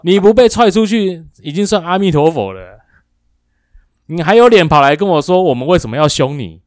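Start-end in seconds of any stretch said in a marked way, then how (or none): 0.0-5.2 loud and higher, laughing through it; mock outrage breaking into laughter; laughing rant. Real, not acted. Laughs while ranting. (边笑边大声数落)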